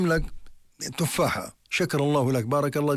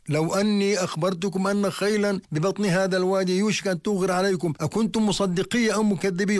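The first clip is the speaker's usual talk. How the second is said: raised, ringing proclamation voice; retold public call; 5 semitones higher than usual. The Prophet asks the tribe if they'd believe him, raised call. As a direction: pitch it up as if addressing a gathered crowd. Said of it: "ينادي فيهم".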